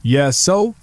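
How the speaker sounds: talking through a mouthful of food; said while chewing; mouth full. A narrator's reading. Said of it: "talking with his mouth full".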